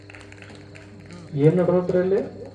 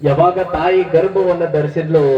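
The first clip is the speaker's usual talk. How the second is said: devotional storytelling. Acted. Preacher telling listeners of Sirasamma's pregnancy, devotional storytelling. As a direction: tell a sacred legend in drawn-out, chanting phrases. Narrates the saint's birth legend.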